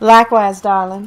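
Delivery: put-on loud, heavily laid-on Southern belle accent. Playing Rouge, signing off to the interviewer: Rouge with Southern belle accent. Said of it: "Is that what you're pulling that accent from?".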